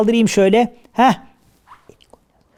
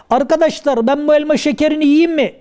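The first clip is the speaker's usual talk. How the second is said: higher-pitched question to the crowd; seyirciye seslenme; 5 semitones higher than usual. Acted. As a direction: call out the question to the audience. (seyirciye yüksek perdeden soru)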